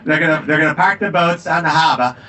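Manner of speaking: put-on a light Boston accent, plotting rebel rallying the guys; revolutionary conspirator talking in a Boston accent; a hint of a Boston accent, rising on the last line. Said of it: "I like to say this with my Boston accent".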